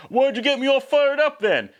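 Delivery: high-pitched, exasperated mock protest; imitating a frustrated teenager; mock indignant outburst. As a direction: whine it out, hammed-up and indignant. Acts Tex's outburst after rejection.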